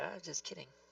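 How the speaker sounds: timid, very meek, hushed, barely audible voice. Speaking in character after an attack roll: very meek voice. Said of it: "in a very meek voice".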